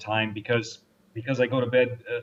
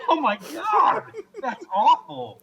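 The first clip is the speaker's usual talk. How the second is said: high, loud outburst through laughter; shocked laughter; 4 dB louder, slower than usual. Real, not acted. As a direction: exclaim in real, delighted horror, laughing. Horrified delight at a gruesome story.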